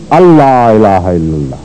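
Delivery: slow "اللہ الہ الا اللہ", first word alla with no n; assimilated recitation. Shown as a demonstration. Teacher reciting an example, "اللہ" said slowly as alla. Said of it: "پھر بھی نون غائب ہو جاتا ہے".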